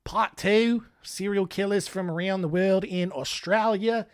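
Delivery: hammed-up fake Australian accent, slipping now and then; put-on Aussie twang for a true-crime recap; bad Australian accent. Podcast host recapping a killer's fate in bad Australian accent. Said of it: "it's a bad Australian accent".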